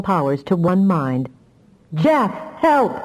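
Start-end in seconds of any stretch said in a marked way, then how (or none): 1.9-2.9 high desperate plea; fearful cry. Acted. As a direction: cry for help in fear. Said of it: "With a cry of fear".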